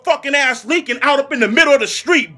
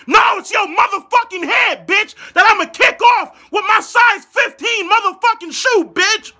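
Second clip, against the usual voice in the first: mock shout; 6 semitones higher than usual. Mock kick threat.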